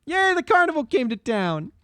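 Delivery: high-pitched bad German accent. Shown as a demonstration. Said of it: "my crappy German accent in two pitches".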